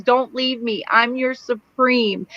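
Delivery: high, slow mock sob of a plea; imitating crying plea. Retelling Nan begging dying Luke, high mock crying. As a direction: whimper it like a girl begging her love to stay. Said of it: "she's crying and bawling".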